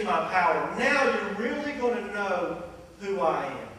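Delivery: rising to loud, slow proclamation; Jesus promising Jairus a miracle, swelling; building promise. Retold or imitated. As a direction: build up then pull back. Jesus promising his power.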